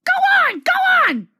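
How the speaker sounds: very high, loud squeaky grumble; grumbling trucks. A narrator's reading. Silly trucks grumbling back at Thomas, squeaky and cross.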